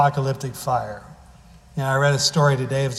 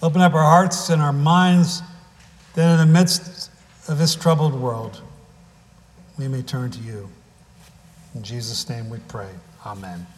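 prayer. Acted. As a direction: pray it and let it settle into amen. Leads a prayer.

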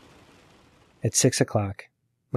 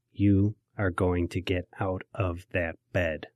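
slow, quiet, warning father; 2 semitones lower, 5 dB quieter, slower than usual. Retold or imitated. Dad warns his son to get out of bed, slowly and quietly. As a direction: say it as a last warning before trouble. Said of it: "by way of warning".

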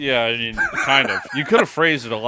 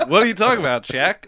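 a put-on Asian accent, played for laughs; 2 semitones higher than usual. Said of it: "That's my Asian accent".

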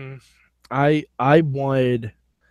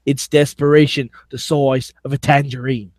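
mock English accent, unhurried; put-on British accent; 3 semitones lower than usual. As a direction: sum it up in a fake British accent. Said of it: "won me over with the accent".

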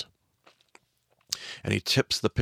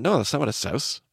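higher, disbelieving; indignant protest; 5 semitones higher than usual. Retold or imitated. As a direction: push back in disbelief. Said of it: "I went".

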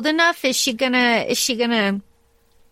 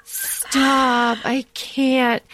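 laughing protest; 3 semitones higher, much slower than usual. Retold or imitated. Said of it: "I was like".

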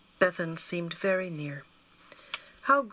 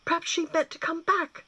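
exclaimed aloud; 11 semitones higher, 6 dB louder than usual. A narrator's reading. Gwyn alone in the attic, exclaiming his hope aloud. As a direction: burst out with a hopeful idea. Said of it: "Gwyn exclaimed aloud".

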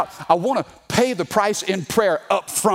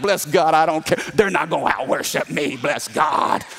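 mock worship bravado; 3 semitones lower than usual. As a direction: brag like you're out-worshipping the kids. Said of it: "I'm like".

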